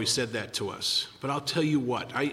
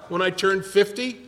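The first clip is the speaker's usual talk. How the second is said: higher and louder mock back-and-forth; retold exchange; 7 semitones higher, 6 dB louder than usual. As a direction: play both sides, pitched up.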